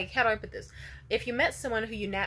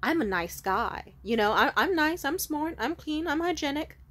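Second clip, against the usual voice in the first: creepy stranger; 3 dB louder than usual. Retold or imitated. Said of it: "kept trying to be like".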